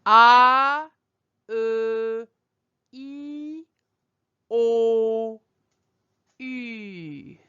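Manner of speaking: "ah" loud and open, "O" rounded, "U" with pursed lips; French vowels ah, uh, e, o, u. Shown as a demonstration. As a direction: model the five vowels in a row for the class. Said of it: "I'm gonna say it one more time".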